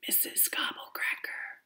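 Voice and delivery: very soft, breathy whisper of Missus Gobblecracker. Shown as a demonstration. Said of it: "you have to whisper when you say her name".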